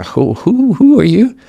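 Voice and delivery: startled, rising high on who are you; taken aback. Retold or imitated. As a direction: caught off guard, voice jumping up. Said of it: "being just taken aback".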